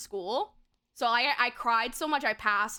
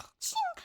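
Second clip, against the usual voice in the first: mock snore; 4 dB quieter than usual. Acts out passing out asleep.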